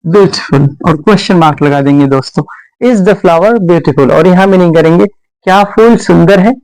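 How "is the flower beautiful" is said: very slow, word by word; dictating to a class; slow dictation. Shown as a demonstration. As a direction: spell it out slowly for students. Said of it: "teacher dictating slowly".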